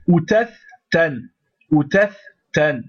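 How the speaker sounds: outath tan with the tha held short, stopped; model Arabic reading. Shown as a demonstration. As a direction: read outath tan clearly twice. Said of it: "il est bloqué".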